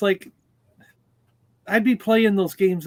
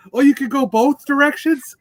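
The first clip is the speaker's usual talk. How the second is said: higher-pitched questioning mom impression; mock surprise; 5 semitones higher than usual. Son retells mom learning Pac-Man controls, in mock amazement. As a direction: imitate a clueless gamer's sudden discovery. Mom discovers the joystick's directions.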